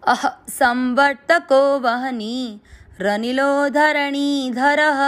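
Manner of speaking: very slow chant, संवर्तको stressed; slow recitation. Shown as a demonstration. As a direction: recite both lines slowly and evenly. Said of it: "तीसरा और चौथा चरण साथ में".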